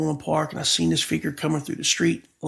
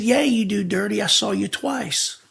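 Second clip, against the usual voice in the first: a lightly voiced woman, higher and knowing; woman's voice; 4 semitones higher than usual. A hint of the woman on the foggy street, coaxing. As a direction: imitate the woman calling him out, only a touch higher. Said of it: "it was a woman's voice".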